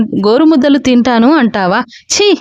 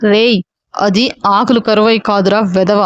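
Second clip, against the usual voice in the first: lower, scolding father voice; stern elder; 4 semitones lower than usual. Acted. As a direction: put the spoiled son in his place. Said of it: "అన్నారు రాఘవ గారు".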